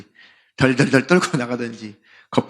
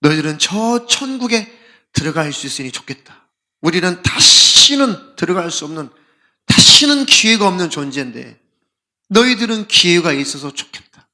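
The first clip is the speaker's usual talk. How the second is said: mock lament; 2 semitones higher, 5 dB louder than usual. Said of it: "그렇게 슬퍼해요".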